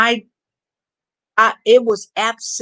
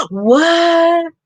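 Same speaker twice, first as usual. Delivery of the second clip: shocked gasp; 9 semitones higher, 5 dB louder than usual. Real, not acted. Reacting to empath's tooth pull.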